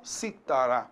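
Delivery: Citará said as cítara, CI stressed, falling low; stress on first syllable. Shown as a demonstration. Teacher repeats the instrument's name, Citará stressed on CI. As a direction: stress the CI of Citará and drop the rest. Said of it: "é um instrumento musical".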